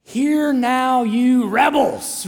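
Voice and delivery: drawn-out, indignant rebuke; mock angry. A leader fed up with his people, mock angry. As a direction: scold the crowd with relish. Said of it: "I like angry Moses".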